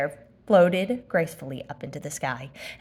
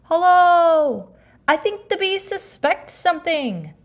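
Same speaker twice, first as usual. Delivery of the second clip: higher, louder honey-loving bear; Pooh voice; 10 semitones higher, 6 dB louder, slower than usual. Acted. Pooh calling down from a balloon, bear voice. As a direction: voice a small anxious bear. Pooh's voice.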